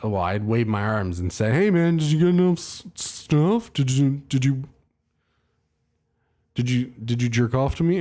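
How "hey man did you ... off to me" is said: much higher, goofy put-on voice; cheeky falsetto-ish joke question to the tech; mock high voice. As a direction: play yourself as a silly high-voiced goof.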